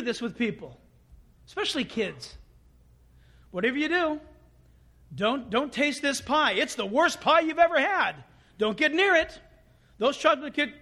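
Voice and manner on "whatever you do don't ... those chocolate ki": hammed-up, emphatic warning; mock dire warning. Adult keeping kids away from the pie, mock dire warning. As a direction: warn them off with exaggerated alarm, louder and higher.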